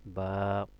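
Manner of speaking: "বা" with its vowel held out evenly; one-alif stretch. Shown as a demonstration. Teacher modelling the letter for learners, "বা" drawn out. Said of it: "একালিফ টান দিবেন".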